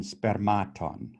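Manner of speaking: "spermaton" stressed on MA, the second syllable. Shown as a demonstration. Teacher showing how the accent shifts, second-syllable stress on "spermaton". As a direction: shift the beat onto the middle of "spermaton": sper-MA-ton. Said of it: "from the first syllable to the second".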